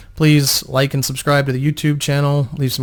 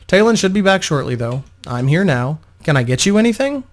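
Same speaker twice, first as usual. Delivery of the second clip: soothing. Acted. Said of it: "Vo talked soothingly".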